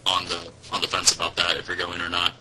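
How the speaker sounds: glitchy robot voice from a bad connection; cutting out like a robot on a call. Real, not acted. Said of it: "I was gonna say robot voice".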